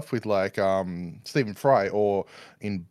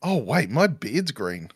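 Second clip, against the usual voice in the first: slow, swooping "it just hit me"; retold dawning realization; slower than usual. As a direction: act out a belated realization, slowly. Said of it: "I've just gone".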